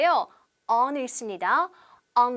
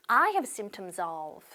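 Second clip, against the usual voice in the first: very slow, careful English model sentence; slow model phrase; 4 semitones lower, much slower than usual. Shown as a demonstration. Teacher modelling a travel phrase, very slow and clear. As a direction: spell out each word slowly for learners. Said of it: "한 번 더".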